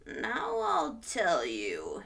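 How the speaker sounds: slow secretive whisper; Onceler whisper. Acted. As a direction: lean in and whisper slowly. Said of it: "as if he had smallish bees up his nose".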